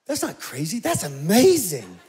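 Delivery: slow, laughing "That's amazing"; awed. Retold or imitated. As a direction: breathe it out in wonder. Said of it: "and I'm like".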